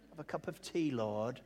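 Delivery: low, soft coaxing; parody Moses. Acted. Moses calming the Lord down, mock soothing. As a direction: gently offer comfort, voice dropped. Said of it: "that's a parody".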